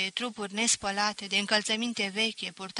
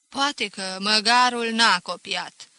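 grudging teacher; 7 dB louder than usual. Acted.

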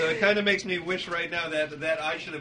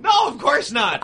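loud, high indignant denial; emphatic shout; 12 semitones higher, 9 dB louder than usual. Real, not acted. Denies kissing, laughing protest.

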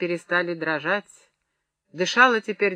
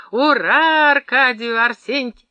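loud, higher hurrah; raised, celebratory call; acted cheer; 6 semitones higher, 7 dB louder, slower than usual. A narrator's reading. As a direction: lead a rousing toast, cut off mid-name. Cheer for Klychkov, cut off.

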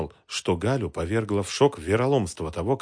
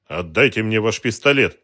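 louder, firm command; firm demand; 3 semitones higher, 9 dB louder than usual. A narrator's reading. Detective demanding the pistol, firm raised command. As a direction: demand the weapon steadily.

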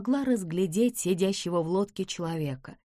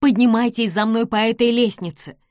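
loud urgent call; girl urging the men to follow; urgent command; 4 semitones higher, 7 dB louder than usual. A narrator's reading. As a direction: hurry them up the ladder. Nancy urges escape.

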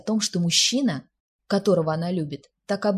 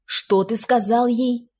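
loud, high, slow-stressed disbelief; shocked outburst; 5 semitones higher, 7 dB louder, slower than usual. A narrator's reading. Jasper hearing what his friend told her, shocked outburst. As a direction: burst out, stunned and drawn out. Jasper jolts upright at the news.

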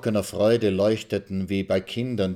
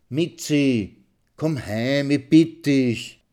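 pleading; 6 semitones higher, 4 dB louder, much slower than usual. Acted. Runs to his wife for pity.

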